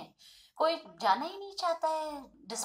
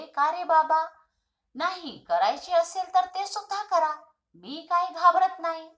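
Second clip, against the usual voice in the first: put-on a child's raised, boastful brag; bold boast; 4 semitones higher, 4 dB louder than usual. Boy brags to the doctor that he fears nothing, bold and raised. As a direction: puff up and sound fearless.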